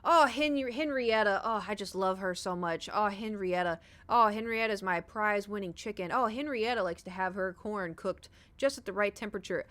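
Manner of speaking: a light mock of a besotted chicken owner; doting farm guy. Farmer Hayden gushing about his chicken, lightly mocked. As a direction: coo over the pet chicken. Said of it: "and he goes".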